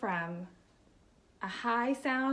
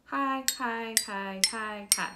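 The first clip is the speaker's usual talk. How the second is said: level chant on a higher note; high sound demo. Shown as a demonstration. Teacher matches the xylophone's high sound, chanting high. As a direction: intone each word up high. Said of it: "So a high sound is that".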